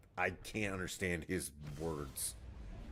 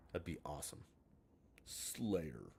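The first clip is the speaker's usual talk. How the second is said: Halo announcer impression; 2 semitones lower, 7 dB quieter than usual. Streamer mimics the Halo announcer for chat, lightly voiced. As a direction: intone it like the match is starting. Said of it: "I love the Halo announcer".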